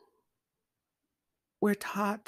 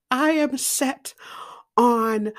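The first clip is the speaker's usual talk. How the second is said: normal talking voice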